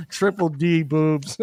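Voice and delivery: half-laughing mock description. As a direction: giggle through the words.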